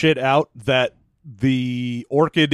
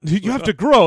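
mock command; 5 semitones higher than usual. Mimics the command to grow.

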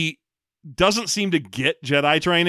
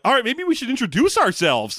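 mock movie character; 10 semitones higher than usual. Mocking movie car ride cliché.

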